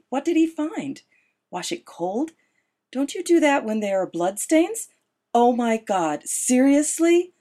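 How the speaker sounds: panicked disbelief. A narrator's reading. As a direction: panic at the thought of bloodstains. Narrator's panicked inner thoughts.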